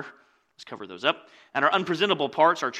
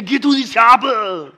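put-on higher, louder, slow Austrian-accented action hero; Arnold Schwarzenegger impression; 6 semitones higher, 10 dB louder than usual. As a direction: ham up a slow Austrian movie-star accent. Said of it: "I can't do the accent".

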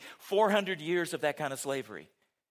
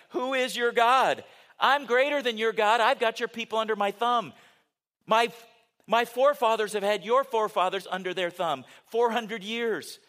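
boastful ruler, louder and higher; scornful Pharaoh; 4 semitones higher, 4 dB louder than usual. Acted. Pharaoh sneering at Moses' God, indignant and boastful. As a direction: throw it down as a proud challenge. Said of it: "this would be the way I would say it".

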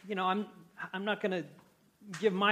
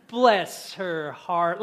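sweet southern put-down; 6 dB louder, much slower than usual. Shown as a demonstration. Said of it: "it sounds nice, but it ain't".

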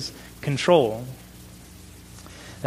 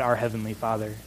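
ordinary delivery

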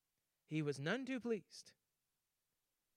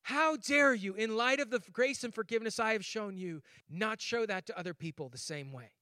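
indignant rebuke; 2 semitones higher, 4 dB louder than usual. Retold or imitated. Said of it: "God's perspective is".

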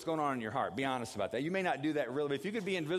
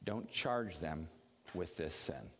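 quiet group prayer; 6 semitones lower, 5 dB quieter, slower than usual. Shown as a demonstration. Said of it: "I want everybody to say".

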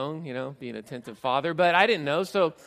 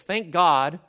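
loud, higher burst of thanks; changed tone; 4 semitones higher, 10 dB louder than usual. Acted. Preacher reading Paul's turn to thanks, loud exclamation. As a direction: punch it out with sudden relief. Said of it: "So Paul's tone changes".

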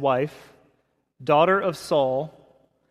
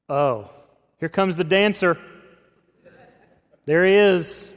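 mocking sneer, a bit louder; sarcastic taunt; 4 dB louder than usual. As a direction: taunt him like a scornful wife. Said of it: "You can hear the tone".

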